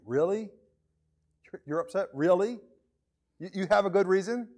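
lightly sarcastic disbelief, rising questions. Acted. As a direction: question it with a touch of mock incredulity. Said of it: "maybe it's a sarcastic".

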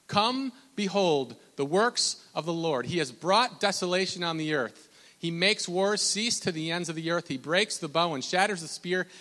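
emphatic scripture proclamation; rising pulpit reading, easing at the end; preach. Acted. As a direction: read it out with weight on key words. Reads scripture once more.

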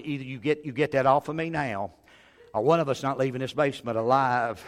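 mock-calm warning in an even voice. Preacher warning son-in-law about the snake, very calmly. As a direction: retell it with controlled understatement. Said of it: "I was very calmly".

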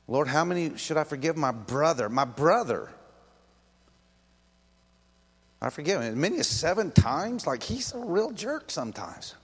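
whiny appeal climbing in pitch; exasperated disciple. Acted. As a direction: protest like a fed-up brother. Acting Peter complaining about his brother.

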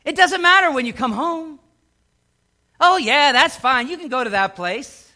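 hammed-up lax parent brushing it off; mock permissive parent. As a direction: play the too-easygoing parent, breezy. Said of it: "would you say".

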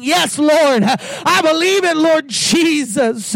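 rising, ringing sermon cadence; fervent pulpit call and response; full-force preaching. Acted. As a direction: preach it out to the congregation.

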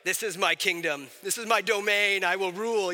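lightly voiced pompous ruler; a hint of mock-regal proclamation; mock self-styled king. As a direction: declare it like a would-be monarch. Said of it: "this is not how we talk anymore".

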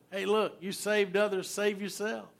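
preacher voicing the crowd mocking Jesus on the cross; mocking taunt. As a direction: tease him like a jeering bystander. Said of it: "so they mocked him and said".

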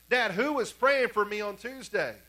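imitating a daughter's urgent demand; insistent repeated question. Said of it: "she keeps on asking him this".

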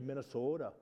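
Minnesota word in Norwegian-American accent; northern Norwegian accent. Shown as a demonstration. Preacher showing local talk to congregation, light northern Norwegian accent. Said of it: "and say".

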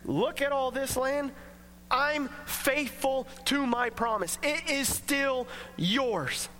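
kind, steady, slowing at the end; faithful promise. Retold or imitated. God reassuring Abram the land is still his, slow and kind. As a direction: offer the land back gently.

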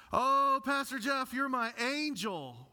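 high, slow, loud tearful mother's plea; weeping mother. Retold or imitated. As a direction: plead like a grateful crying mom. Pastor voices weeping mother.

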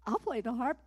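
high-pitched, loud cry of yes; eager volunteer. Retold or imitated. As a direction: leap at it. Volunteering again for the harp.

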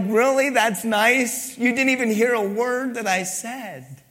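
high, incredulous retort; mock indignation. Ignored friend answering a self-absorbed talker, mock indignant. Acted retort to someone not listening.

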